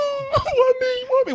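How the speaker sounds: hammed-up high self-pitying whine; mock whining. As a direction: whimper it like a sore loser, high and crying. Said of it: "And you up there".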